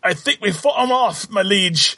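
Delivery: high-pitched put-on retainer's voice; loyal retainer. Retainer telling his liege the spiders are beaten, high character voice. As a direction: report to your lord in a high character voice.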